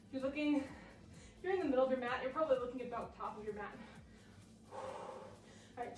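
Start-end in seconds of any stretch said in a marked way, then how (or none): 4.7-6.0 breathy whisper. Real, not acted. Breathless whisper mid-exercise.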